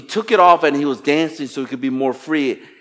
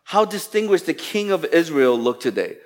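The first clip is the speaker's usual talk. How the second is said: hint of sarcasm; 3 semitones higher than usual. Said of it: "There's a hint of sarcasm here".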